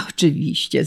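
ordinary delivery

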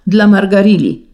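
the condemned man crying out his beloved's name at the block; last cry. A narrator's reading. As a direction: call it out as his final words. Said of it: "zawołał".

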